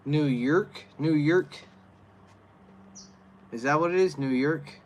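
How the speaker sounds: can't believe that's the answer; incredulous. Real, not acted. Incredulous at a chat reply.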